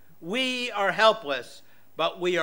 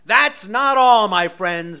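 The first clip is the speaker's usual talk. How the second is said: infomercial; 10 dB louder, slower than usual. Pretend. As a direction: hype it like a TV salesman. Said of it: "I sound like an infomercial now".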